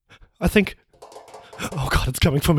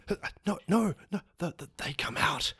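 fearful whisper; 2 semitones lower, 6 dB quieter than usual. Acted. Scared clerk warning of monsters.

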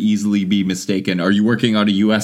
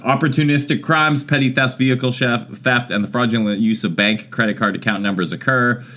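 reading advisory. Acted. Reads advisory.

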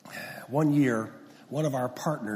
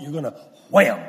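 retold warning shout; 10 dB louder than usual. Retold warning before the crash.

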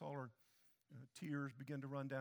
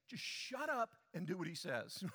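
laughing through the blunt words; amused, half-laughing bluntness. Real, not acted. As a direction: say it with a chuckle. Preacher paraphrases scripture, laughing.

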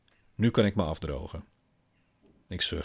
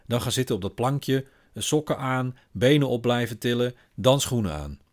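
a higher, brisk list of orders; bossy father instructions; 5 semitones higher, 4 dB louder than usual. Acted. Father hurries daughter through dressing, firm and higher. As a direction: tick off each step for her.

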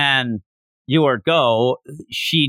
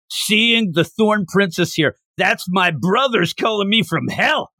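mock fired-up; 6 semitones higher than usual. Waiter vowing revenge for his brothers, mock fired-up. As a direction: act out a fired-up killer, pitch climbing. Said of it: "he's all fired up".

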